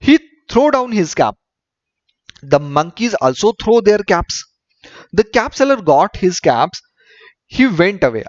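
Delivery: slow, deliberate English story reading; story read-aloud. A narrator's reading. Teacher reading a story to pupils, measured read-aloud. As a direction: read it out sentence by sentence with pauses.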